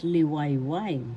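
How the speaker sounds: "Liwayway" said slowly, syllable by syllable, falling at the end; slow demo. Shown as a demonstration. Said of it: "That is a Tagalog word".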